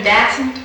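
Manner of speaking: "dacent" said with a flat a, like "day-sent"; dialect pronunciation. Shown as a demonstration. Interviewer asking about the local form "dacent". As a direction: say "dacent" as a dialect word with a rising question. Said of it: "are you familiar with the expression".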